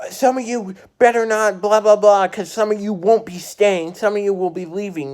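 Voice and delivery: high, loud warning to the class; coach's threat. Retold or imitated. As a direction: threaten them so they stop laughing. Coach threatens laughing students.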